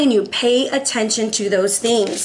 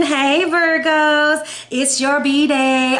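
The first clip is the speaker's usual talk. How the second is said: slow, drawn-out, higher hey to the Virgos; sing-song greeting; 5 semitones higher, much slower than usual. Acted. Greeting Virgo viewers on their birthday season, slow sing-song call. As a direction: stretch it out like a party call.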